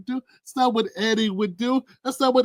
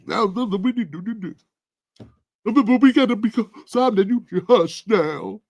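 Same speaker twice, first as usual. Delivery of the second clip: put-on old woman. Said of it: "She talks like an old lady".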